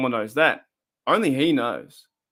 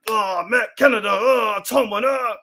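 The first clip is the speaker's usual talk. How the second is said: hammed-up crying, pitched way up; mocking a fan who wails much higher over the coach and coordinator; mock anguished wail; 8 semitones higher, 3 dB louder, slower than usual. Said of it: "I'm like".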